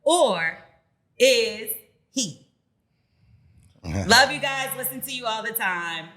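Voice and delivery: measured, emphatic read with dramatic pauses; reading a letter aloud. Acted. Host reads a listener's dilemma to co-hosts, emphatic read-aloud. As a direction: land key words hard, then pause.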